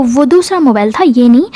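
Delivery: mildly protesting statement; defensive excuse. Retold or imitated. Cornered friend offers another excuse. (हल्की सफ़ाई देते हुए)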